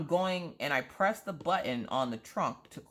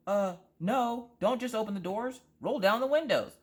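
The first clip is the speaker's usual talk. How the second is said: retold panic; 7 semitones higher than usual. Panicked self-talk, seagull in car.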